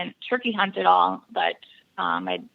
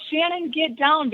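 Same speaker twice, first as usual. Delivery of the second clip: higher-pitched mock yell, drawn out; slow, raised-pitch imitation of a scream; retold scream; 7 semitones higher, slower than usual. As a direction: imitate an urgent scream without really yelling. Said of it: "he just screams at me".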